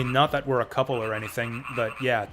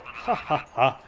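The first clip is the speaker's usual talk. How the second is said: hearty laugh; 4 semitones higher, 5 dB louder, much slower than usual. Acted. Voiced NPC laughing.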